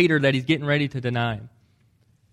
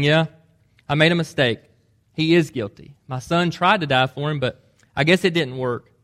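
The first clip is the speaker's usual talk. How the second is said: a louder, offhand judge changing his mind; mock judge; 4 dB louder than usual. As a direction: play a judge casually reversing the verdict. Judge voiced reconsidering verdict.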